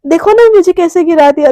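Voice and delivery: angry complaint. Acted. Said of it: "एकदम गुस्से में".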